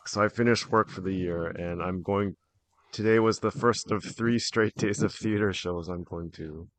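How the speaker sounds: slightly raspy after cheering; a little raspy, worn from cheering. Real, not acted. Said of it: "so my voice is a little raspy".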